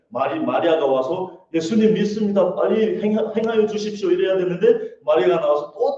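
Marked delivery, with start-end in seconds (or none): 1.5-4.1 high-pitched, urgent acted plea; confident declaration. Mary should have come out pleading to Jesus, confidently. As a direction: declare it with eager faith. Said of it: "정확하게 믿음을 선포하고".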